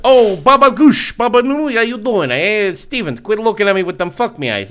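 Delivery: lightly voiced joke character; put-on character voice. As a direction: greet friends in a hammed-up put-on voice. Joke voice after accent talk.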